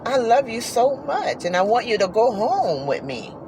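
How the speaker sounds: soft, tearful plea to the horse; mild imitation of crying; retold crying plea. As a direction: quietly beg her not to leave. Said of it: "I just start crying like".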